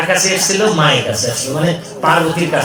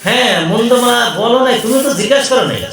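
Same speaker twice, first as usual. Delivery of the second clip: higher, insistent wifely questioning; Parvati demanding; 4 semitones higher than usual. Acted. Parvati questions Shiva about his skull garland, insistent and higher. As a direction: press your husband for the truth.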